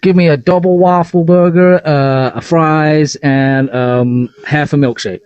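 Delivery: badly faked American accent, halting; hesitant mock American accent; attempted American accent. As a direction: order fast food in a put-on American voice. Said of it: "sound American".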